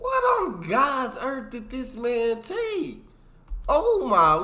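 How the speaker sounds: high, slow, loud astonishment; shocked disbelief. Real, not acted. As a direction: gasp in disbelief. Listener shocked by story.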